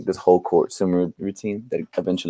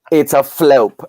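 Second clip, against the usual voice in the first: insistent flope; 6 semitones higher, 6 dB louder, slower than usual. Retold or imitated. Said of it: "She's like".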